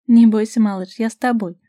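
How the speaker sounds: mock-reassure him playfully; mocking snort. A narrator's reading. Vasilisa mockingly comforts Robert, loud and teasing. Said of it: "фыркнула Василиса".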